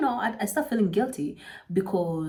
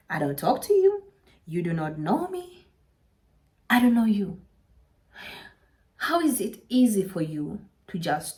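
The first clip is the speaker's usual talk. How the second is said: indignant rant. Retold or imitated. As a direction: put the gossip in her place. Ranting at the gossiping girl.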